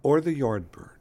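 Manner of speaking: breathy whispered question. Acted. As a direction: whisper it like a secret. Whispered band quiz.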